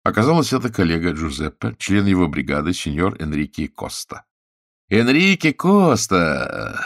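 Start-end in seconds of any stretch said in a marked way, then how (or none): 4.9-6.8 perked up. A narrator's reading. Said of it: "оживился полицейский".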